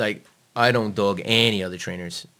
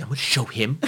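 laughing; 4 semitones higher than usual. Retold or imitated. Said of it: "And you were like".

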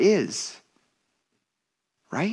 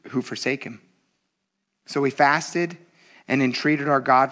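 scripture reading; 3 semitones lower than usual. Acted. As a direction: read the verses with gravity. Reads scripture passage aloud.

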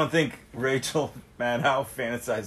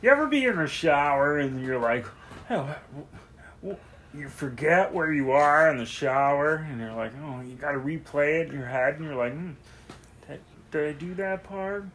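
Ray Romano bit. Retold or imitated. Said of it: "I was doing a bit from Ray Romano's stand-up special".

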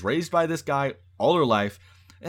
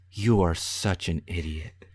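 mock deadpan insult; 8 semitones lower than usual. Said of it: "turns to him and says".

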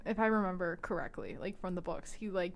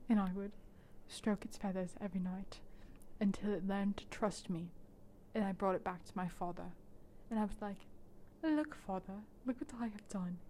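mock dramatic Jace; 4 dB quieter than usual. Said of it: "Very cinematic, Anya".

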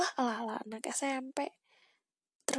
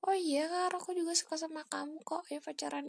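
imagined crush answering; 6 semitones higher than usual. Pretend.

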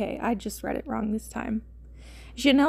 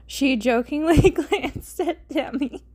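higher, slow, giggly narration; laughing while reading; 4 semitones higher, 4 dB louder than usual. Real, not acted. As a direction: struggle through the line laughing.

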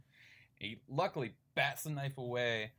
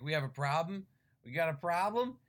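menacing; 6 semitones higher, 6 dB louder than usual. Retold or imitated. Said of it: "the guy's like".

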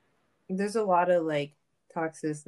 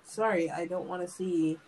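laughing; slower than usual. Real, not acted. Laughing while talking.

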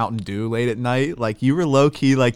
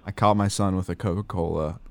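worried Mormon parent. Retold or imitated. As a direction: play a solemn parent confessing a sin. Mock parent speech on Coke.

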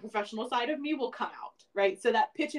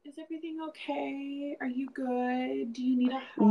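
mock sweetness, overdone caring; lightly imitated sugary coworker; fake nice concern; 4 semitones higher than usual. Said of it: "they change it to".

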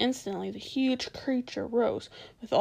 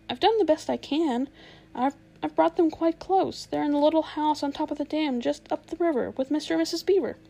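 anxious pleading; 4 semitones higher, 4 dB louder than usual. Acted. Edmund pleads with witch.

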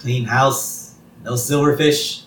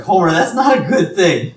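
higher, louder scolding Marge; 7 semitones higher, 6 dB louder than usual. Retold or imitated. Marge rejecting Homer's offer, higher and chiding. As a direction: gently scold him the way Marge would. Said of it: "And Marge is like".

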